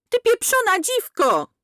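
high, slow, spat-out curse; enraged woman cursing; furious insult. A narrator's reading. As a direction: hurl the insult at her. Sister-in-law yells abuse.

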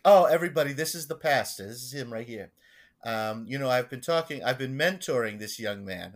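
put-on grand introduction, opening loud, Long Island accent; Gordon's Long Island accent. Parishioner introducing the pastor to his buddies, Long Island accent. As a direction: lightly imitate a self-important old Long Islander. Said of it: "and this is how he talks".

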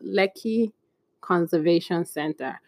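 careful pronunciation. Real, not acted. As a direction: pause between "Lekki" and "Conservation Center", saying it with care. Careful try at a tricky name.

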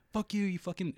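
high-pitched imitation of a cursing woman; hammed-up high voice; mock angry neighbour. Imitating neighbour girl swearing back.

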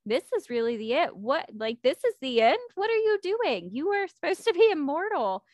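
a lover stunned by her death, panicked and rising; panicking disbelief. Retold or imitated. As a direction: retell his frantic denial, pitch shooting up on the question. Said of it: "Thanatos is panicking".

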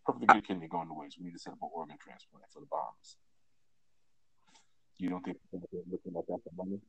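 muffled voice; through a wall. Real, not acted. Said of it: "you sound muffled again".

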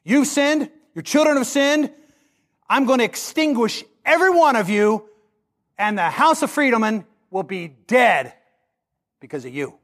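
sermon voicing of God condemning a household; God's judgment voiced. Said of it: "I hope this is what my response will be".

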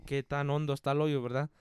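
quiet, low Spanish with a questioning verdad after each step; Don Verna. Retold or imitated. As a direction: imitate a coworker's rambling step-by-step instructions. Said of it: "he's like".

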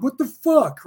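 an annoyed cop blurting it out; exasperated outburst. Retold or imitated. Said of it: "he's like".

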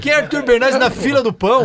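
loud, high-pitched mock incredulity; mock dismissive. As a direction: scoff loudly as if he's a nobody. Joking that nobody remembers him.

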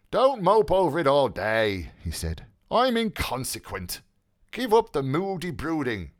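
lightly voiced teasing young man; a touch of brisk teasing; Mulligan's voice.

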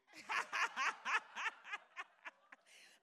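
loud, hearty burst of laughter; loud hearty laugh from the pulpit; big real laugh. Real, not acted. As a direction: laugh out at your own joke. Congregation joke, preacher laughs.

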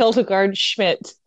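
put-on Hildegard Schmidt in a slow German accent, hard t and k. Sister jokes about the nurse's name in a German accent. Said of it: "let's do all the German".

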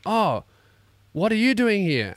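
eager and curious; teen fans asking why he is there. Retold or imitated. Teenagers voiced in story.

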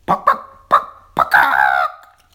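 breathy clucks ending low; annoyed hen clucks; whispered cluck. Acted. Annoyed chickens.

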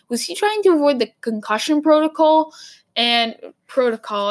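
put-on an accidental, light Boston accent. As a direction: lean into a Boston accent on "protocol". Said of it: "like, a Boston accent".

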